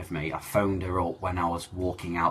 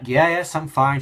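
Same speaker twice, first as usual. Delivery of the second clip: high, louder brushing-off yes; forced reassurance; 9 semitones higher, 7 dB louder than usual. Retold or imitated. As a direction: insist you're fine over welling tears. Son deflecting mum's worry.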